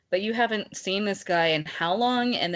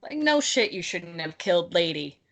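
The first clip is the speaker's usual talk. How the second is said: annoyed outburst. Real, not acted. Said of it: "I'm mad".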